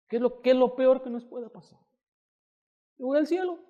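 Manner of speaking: high-pitched, breezy dismissal; mock bravado. Husband cheering his frightened wife about death, high mock bravado.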